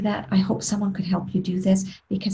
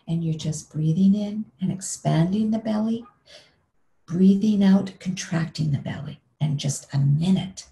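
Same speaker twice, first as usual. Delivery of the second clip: pace the words to the breath; guided breathing. Shown as a demonstration. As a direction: lead the listener through each breath.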